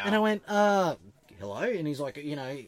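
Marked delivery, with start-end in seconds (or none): 0.5-1.6 higher, louder, hesitant greeting; mock-startled answer at the intercom; wary hello. Housemate answers the video phone to two coppers, wary and thrown.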